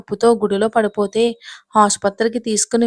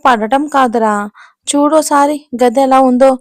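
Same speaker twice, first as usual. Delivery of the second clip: louder, higher indignant exclamation; excited grandmother; 3 semitones higher, 6 dB louder than usual. Acted. Grandmother showing her son the bedroom, excited and loud. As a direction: call them over to look, all worked up.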